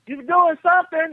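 high calling voice from another room; granddad calling. Retold or imitated. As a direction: call the name up high, a room away. Grandfather questioning.

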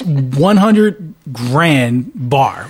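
slow, spelled-out brand name; slow, mock-grand "one hundred grand bar"; drawn-out naming. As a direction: draw out each word of the candy name.

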